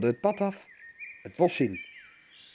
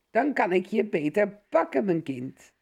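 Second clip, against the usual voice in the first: gespeelde omastem; 8 semitones higher than usual. A narrator's reading. Wolf als oma antwoordt.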